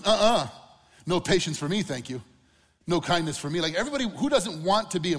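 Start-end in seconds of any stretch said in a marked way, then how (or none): 0.0-3.6 loud mock brush-off, turning down patience; mock refusal. Preacher mocks a listener refusing patience, loud brush-off. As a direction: scoff as if turning down a gift.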